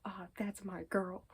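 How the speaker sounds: slow, fond and pleased; mild proud murmur. Retold or imitated. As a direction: savour the pride in her.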